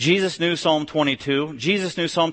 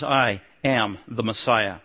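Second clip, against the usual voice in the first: solemn declaration; 6 semitones lower, slower than usual. Retold or imitated. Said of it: "a declaration on Jesus".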